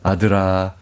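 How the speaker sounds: usual speaking voice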